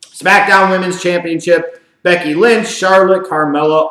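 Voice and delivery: ordinary delivery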